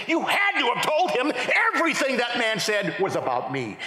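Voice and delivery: high, insistent mock accusation; acted accusation. Husband accusing his wife mid-sermon, acted indignation. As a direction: accuse her, leaning on the words.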